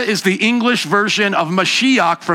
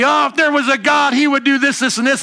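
higher-pitched mock of a sneering doubter; mocking scoffers; 5 semitones higher than usual. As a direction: mimic mockers taunting God. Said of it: "The mockers say".

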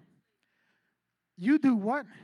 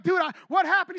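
higher-pitched acted bewilderment; startled boyfriend; 4 semitones higher than usual. Boyfriend asking his crying girlfriend what happened, acted bewilderment. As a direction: play a mildly baffled boyfriend.

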